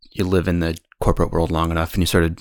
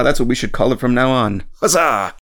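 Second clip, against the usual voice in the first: put-on British accent; 6 semitones higher, 5 dB louder, slower than usual. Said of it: "try a terrible British accent".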